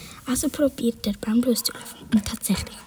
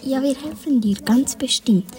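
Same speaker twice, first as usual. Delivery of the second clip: unsure; 3 dB louder than usual. Acted. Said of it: "sagt Schlaubi unsicher".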